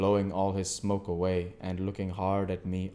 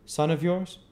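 higher, louder stranger's voice; 9 semitones higher, 5 dB louder than usual. A narrator's reading. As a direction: voice the odd stranger, curious. Stranger asks.

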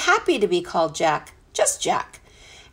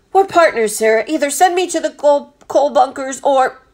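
put-on high, raised young voice; earnest defiant boy; 6 semitones higher, 5 dB louder than usual. A narrator's reading. Boy standing by his partner, earnest and high. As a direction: plead loyalty to the captain.

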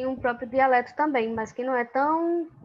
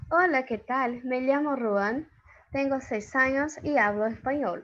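Spanish. Shown as a demonstration. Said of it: "vamos ver o que é que ele tá dizendo".

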